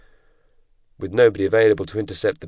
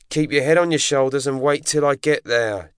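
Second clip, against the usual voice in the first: ordering; 7 semitones higher than usual. A narrator's reading. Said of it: "That's a direct order".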